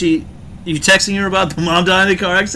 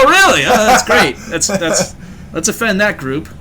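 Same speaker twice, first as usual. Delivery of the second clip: sarcastic; 4 semitones higher than usual. Pretend. Mocking sarcastic reply.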